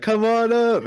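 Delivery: high excited call; beckoning shout. Acted. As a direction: wave them up, shouting. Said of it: "be like".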